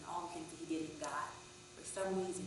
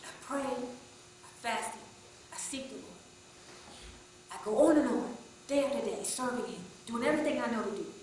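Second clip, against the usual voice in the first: louder and louder, furious complaint; angry shout; 4 semitones higher, 15 dB louder than usual. Retold or imitated. Frustrated man yells at preacher across the church, furious shout. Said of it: "at the top of his lungs, 'cause he was angry".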